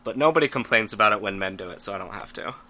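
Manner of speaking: low creaky vocal fry. Real, not acted. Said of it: "I won't apologize for my vocal fry".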